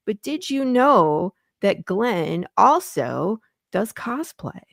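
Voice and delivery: slow, drawn-out build to the punchline; teasing reveal. Real, not acted. Host teasing the guest about cosplay, slow teasing reveal.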